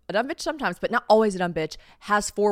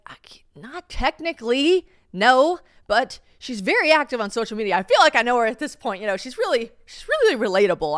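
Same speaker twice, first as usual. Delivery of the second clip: higher, louder naive gushing; eager justification; 4 semitones higher, 6 dB louder than usual. Retold or imitated. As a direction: sell it eagerly. Justifying herself to parents.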